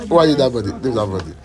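startled loud rebuke; shocked shout. Acted. Shocked preacherly outburst.

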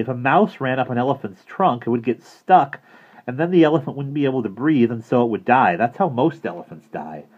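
put-on high, loud kid explaining; a know-it-all boy lecturing; Bradley lectures the counselor on elephants, high and loud; earnest boy.

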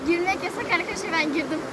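shocked by freezing water; in ice cold water. Real, not acted. Wading into icy water.

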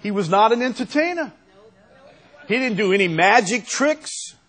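loud, high-pitched denial; emphatic protest. Real, not acted. Preacher denies the Lord was an entertainer, emphatic protest. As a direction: insist on it, voice pushed up.

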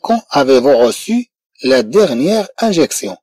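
slow model sentence. Shown as a demonstration. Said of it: "إذا".

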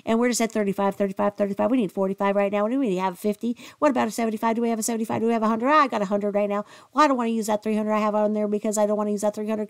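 mock auctioneer. Streamer mocks Michelle begging viewers for money, auctioneer-style. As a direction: hammer the numbers like an auctioneer.

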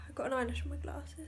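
soft unvoiced whisper. Real, not acted. Telling viewers about an eyelash, whispered. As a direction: breathe it as a secret aside.

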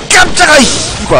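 high startled scream into a curse. Real, not acted. Gamer jolted by a sudden scare, startled scream. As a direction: jump out of your skin, yelling high.

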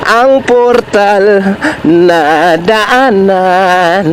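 slow words jolted by bumps; on a bumpy road. Real, not acted. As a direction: voice shaken on rough road. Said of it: "Ayan lang sinasabi kong portal na daanan". (boses na umaalog sa lubak)

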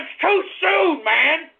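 angry protest. Real, not acted. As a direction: drag it out in outrage. Ranting at the joke.

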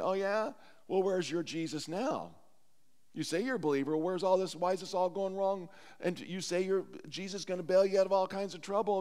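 lightly acted sceptic's challenge; imitated jeering questions; mock taunting. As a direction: needle them like a scoffing doubter. Acting out taunting doubters of believers.

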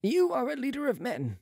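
high-pitched character voice; Marat challenging. A narrator's reading. Marat challenges Balsamo, high declaiming voice.

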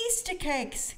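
high, delighted storybook exclamation; a lightly gasped, high-pitched discovery. A narrator's reading. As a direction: exclaim like a thrilled little one. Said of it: "gasped Peppa".

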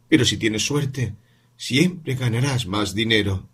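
madre lenta, algo más aguda; madre que explica. Acted. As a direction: explica con paciencia cansada. Voz de la madre. (madre explicando la suerte al hijo, lenta)

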